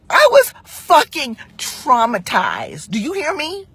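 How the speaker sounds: slow, emphatic indignation; drawn-out outraged emphasis; upset insistence. Real, not acted. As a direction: drive it home, still heated. Says she was traumatized, still upset.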